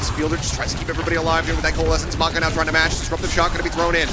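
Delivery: brisk, keyed-up esports commentary; live play-by-play. Real, not acted. Caster calling abilities as they land, live play-by-play. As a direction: keep pace with the fight.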